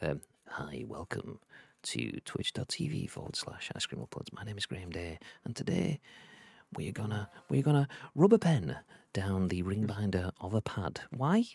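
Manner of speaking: soft, whispered ASMR intro. Pretend. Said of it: "A S M R".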